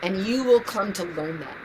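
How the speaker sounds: tender, earnest. Real, not acted. Tender advice to her younger self.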